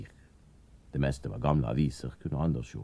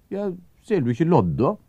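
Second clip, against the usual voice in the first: character voice; 8 dB louder than usual. Acted. Gaspar scolds Anders.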